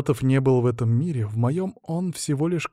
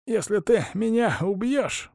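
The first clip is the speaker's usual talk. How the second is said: breathless struggle; 9 semitones higher, slower than usual. A narrator's reading. Poisoned hostage addressing his captor, gasping for words. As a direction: break off, then force it out slowly.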